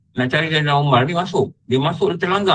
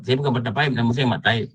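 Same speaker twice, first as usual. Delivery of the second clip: level, unruffled sample reply; steady. Retold or imitated. Preacher models answering a name-caller, steady. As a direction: answer the insult without any heat. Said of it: "Steady je cakap".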